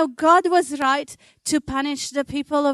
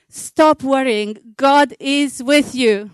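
reassuring words; 4 dB louder than usual. Shown as a demonstration. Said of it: "turn to the person beside you and tell them".

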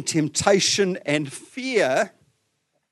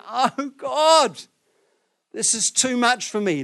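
high, loud, desperate plea; acted agony, pitched high; anguished cry; 8 semitones higher, 4 dB louder, slower than usual. Shown as a demonstration. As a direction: cry out to God, overwhelmed. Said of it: "It would have been".

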